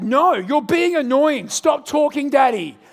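put-on high, loud bossy child voice; cheeky toddler. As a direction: play the sassy three-year-old. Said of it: "he's like".

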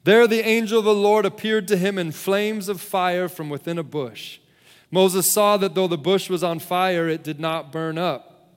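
measured, solemn Bible reading with deliberate pauses; scripture reading. A narrator's reading. Preacher reads Moses and the burning bush to the congregation, measured scripture reading. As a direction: read the passage out to a congregation, letting phrases settle.

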